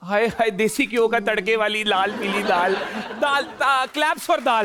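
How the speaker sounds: gushing, laughing delight over dal; excited. Real, not acted. Host cheering the guest's favourite dish, excited.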